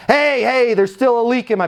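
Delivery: high-pitched complaining resident; upset resident yelling. Acted. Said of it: "somebody yells at you".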